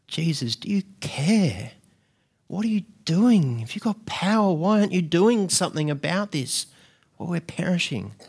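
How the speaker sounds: a plea that grows urgent, question by question; desperate plea. Retold or imitated. Sufferer demanding Jesus act, growing desperation.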